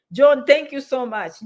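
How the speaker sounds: slow, emphatic thanks with the name stressed; heartfelt thanks. Real, not acted. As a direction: lean in and really thank him. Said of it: "I know I'm saying thank you so much".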